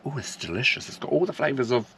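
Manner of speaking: a hint of a pretentious foodie; lightly mock food critic gushing. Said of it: "be one of those foodie wankers and go".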